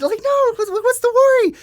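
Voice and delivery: very high mock-incredulous squeak; baffled protest. Acting out his baffled reply.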